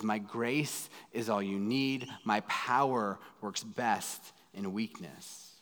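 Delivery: slow, soft and steady, each word weighed; calm voice of God. Retold or imitated. God answering Paul's begging, slow and calm. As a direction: let God answer gently and very slowly.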